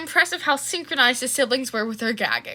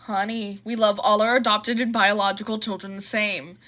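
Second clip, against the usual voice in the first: soothing; 2 semitones lower than usual. Acted. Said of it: "Hisashi soothed".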